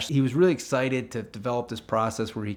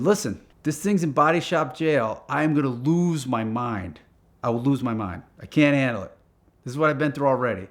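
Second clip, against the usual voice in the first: emphatic retold venting, pushed louder; exasperated; 3 semitones higher, 5 dB louder than usual. Car owner warning a new painter about body shop jail, exasperated. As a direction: stress every complaint, exasperated.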